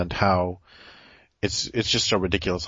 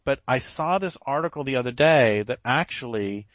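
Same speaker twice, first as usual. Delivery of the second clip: sarcastic; 2 semitones higher than usual. Pretend. Interviewer feigning faith in algae articles to the guest, sarcastic. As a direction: play up the irony, pretending to be thrilled. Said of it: "you have a sarcasm slash irony alert".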